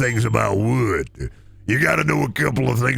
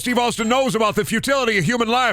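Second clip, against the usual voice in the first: Stone Cold Steve Austin; 11 semitones higher than usual. Pretend.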